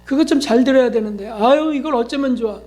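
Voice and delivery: self-scolding grumble. Retold or imitated. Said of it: "막 이렇게 그런다고요".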